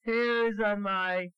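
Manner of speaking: high squeaky little pig, slow and stubborn; squeaky piggy voice. Acted. Father reading to his child, voicing the piggy's refusal in a high squeak. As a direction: pipe it up high like a tiny pig.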